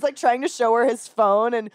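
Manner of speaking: usual speaking voice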